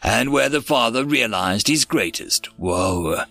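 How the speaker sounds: measured rhyming storyteller delivery; verse story narration. Acted. Narrator telling listeners of aliens and a stolen child, storytelling. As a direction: narrate it as a rhyming tale, lingering on each refrain.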